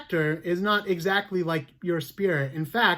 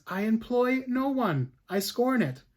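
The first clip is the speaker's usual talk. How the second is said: defiant denial; 6 semitones higher than usual. Acted. Accused answers the judge.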